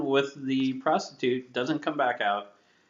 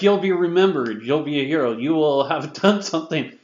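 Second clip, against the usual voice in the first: loud, higher-pitched mock pep talk; charismatic captain; 4 semitones higher, 5 dB louder than usual. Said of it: "But then the charismatic".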